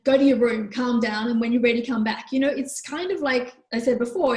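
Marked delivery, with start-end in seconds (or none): 0.0-2.3 a louder, clipped order, falling at the end; a stern parent ordering a child away: "your" hit and falling; curt command. Shown as a demonstration. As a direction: send him off like a punishment. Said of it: "Rather than".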